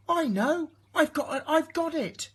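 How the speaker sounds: high, loud eureka from the snail; excited snail cry. A narrator's reading. Snail cries out her idea to the whale, high and loud. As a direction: burst with the idea. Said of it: "she cried".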